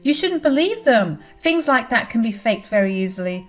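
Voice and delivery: high, loud desperate denial; shrill pleading woman. Acted. Leslie denies, high pitched.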